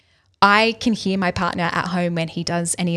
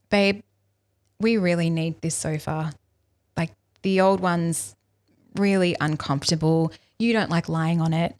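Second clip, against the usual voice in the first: softened tone. Retold or imitated. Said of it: "if I changed my tone".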